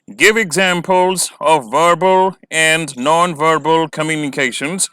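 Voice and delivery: very slow, measured read-out of the question; slow dictation pace. Shown as a demonstration. Reading question aloud.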